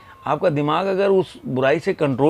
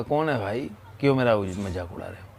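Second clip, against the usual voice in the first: echo; 4 semitones lower than usual. Retold or imitated. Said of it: "तो उधर से फिर इको हुआ".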